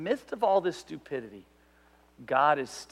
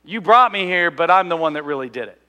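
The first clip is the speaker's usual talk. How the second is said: mock boast; 8 dB louder than usual. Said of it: "You're really kinda saying".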